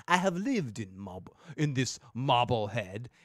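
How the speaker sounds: Marblehead said with a thick Boston accent, r dropped. Shown as a demonstration. Local podcaster leans into his Boston accent, hammed up. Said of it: "makes my Boston accent come out".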